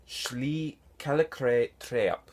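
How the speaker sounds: slow, careful "Shli Kalikre Treap", pausing between the words; invented-language pronunciation. Shown as a demonstration. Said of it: "it would sound somewhat like".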